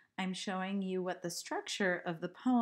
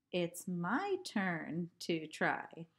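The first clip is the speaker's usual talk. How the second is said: slow recited line; slower than usual. Shown as a demonstration. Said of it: "One, two".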